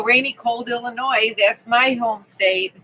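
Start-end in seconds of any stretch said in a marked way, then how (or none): none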